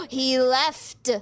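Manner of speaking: sudden shocked realization; surprised. Acted. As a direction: gasp then blurt it out. Gasp, surprised discovery.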